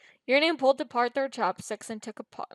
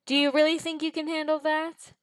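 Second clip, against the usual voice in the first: higher, mocking demon voice; dark chuckling taunt; 7 semitones higher, 4 dB louder than usual. A narrator's reading. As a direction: taunt them with a dark edge. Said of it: "chuckling darkly".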